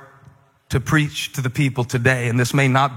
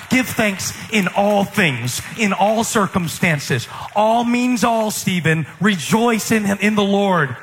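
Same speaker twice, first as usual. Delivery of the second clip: higher, slow, preachy lecturing; preachy scold; 4 semitones higher than usual. Pretend. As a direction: lecture Stephen with scripture, drawn out. Preachy believer quoting scripture, higher.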